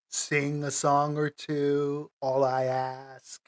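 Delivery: slow, wistful daydream delivery; trailing away into a daydream, very slowly; dreamily drifting off. Real, not acted. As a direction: draw it out as if lost in a fantasy. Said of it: "Slipped away there for a second".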